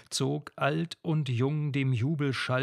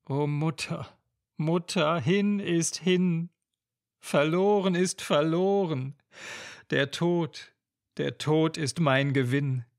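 despairing lament; 3 semitones higher than usual. Acted. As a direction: cry out your loss to mother. Lenore wishes for death.

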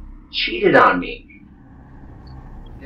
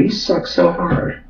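ordinary delivery

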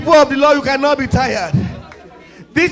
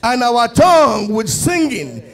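measured reading of a psalm, falling at phrase ends; scripture reading; 3 semitones lower than usual. Acted. Preacher reads the psalm to the congregation, in a measured reading voice. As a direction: read the psalm to the church like a lesson.

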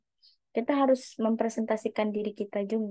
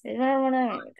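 relaxed demo; 3 semitones higher, much faster than usual. Shown as a demonstration. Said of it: "Santai aja".

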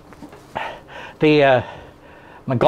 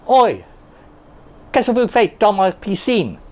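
French; 5 semitones higher than usual. Pretend.

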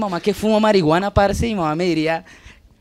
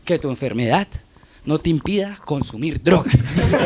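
self pep talk; 5 semitones lower than usual. Pretend. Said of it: "me digo".

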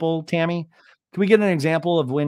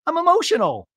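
a touch higher, dramatic; mocking Shannon; 12 semitones higher, 4 dB louder than usual. Shannon defending herself to Tamara, mildly high wail. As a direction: wail it out a little. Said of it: "And Shannon goes".

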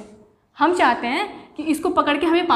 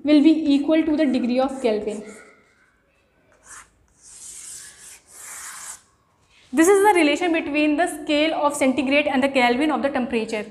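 slow dictation; much slower than usual. Shown as a demonstration. Dictating a formula to students.

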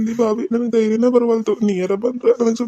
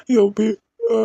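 crying out; slower than usual. Acted. Boy phones mother after snakebite.

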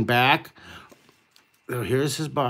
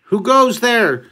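slow, louder guard call; guard's challenge; 9 semitones higher, 6 dB louder, slower than usual. Retold or imitated. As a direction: bellow it down from the wall. Guard challenges pizza man.

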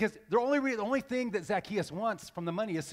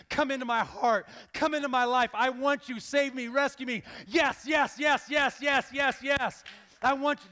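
raised, insistent confession; fervent plea; 4 semitones higher, 3 dB louder than usual. Acted. Believer asking Jesus to save and rescue, fervent plea. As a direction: plead eagerly with quickening urgency, pitched up. Acted confession pleading to be saved.

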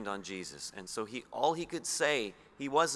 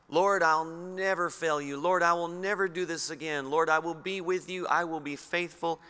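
Peter's bold vow; 3 semitones higher, 4 dB louder than usual. Retold or imitated. Voicing Peter's boastful promise.

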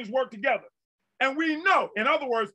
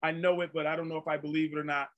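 low, soft, hesitant mumble; doubtful waffling; 4 semitones lower, 6 dB quieter than usual. Acted. Preacher voicing a doubting believer, doubtful waffling. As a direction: imitate an unsure believer, quick and under the breath. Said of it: "you can kinda like".

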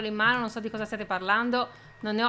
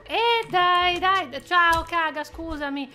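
higher, louder flustered hello; flustered greeting; 5 semitones higher, 3 dB louder, much slower than usual. Real, not acted. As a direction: trip over the greeting. (saluto impacciato e agitato)

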